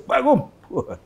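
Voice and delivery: mock presidential demand; imitating the president. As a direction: bark the order like an irritated boss. Retold angry order from president.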